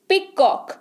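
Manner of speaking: "पीकॉक" split into two beats, पी and कॉक; two syllables. Shown as a demonstration. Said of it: "दो बार बोला".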